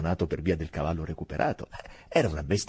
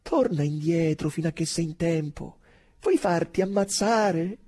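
higher, louder urgent warning; sentry silently warning his friend; private warning; 10 semitones higher, 5 dB louder than usual. Acted. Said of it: "un avvertimento privato".

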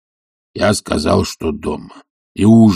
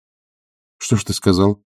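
ordinary delivery, nothing marked

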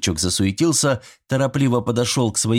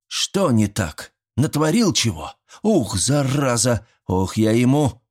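mock threat; 4 semitones higher, slower than usual. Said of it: "Митрич погрозил кулаком небесам".

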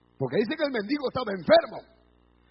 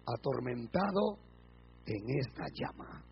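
low, very soft, sinking voice; hushed, suffering rich man; tormented; 11 semitones lower, 11 dB quieter than usual. Acted. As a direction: let the voice sink away as in agony. Rich man's torment, acted.

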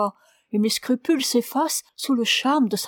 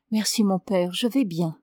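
angelic tone. Acted. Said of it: "Sa voix avait repris un timbre angélique".

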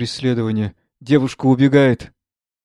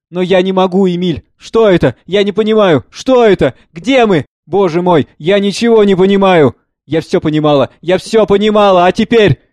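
loud, raised, agitated questioning; distraught bewilderment; 7 semitones higher, 9 dB louder than usual. Acted. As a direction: plead to understand, high and loud. Distraught mother fails to understand. (в смятении, растерянно)

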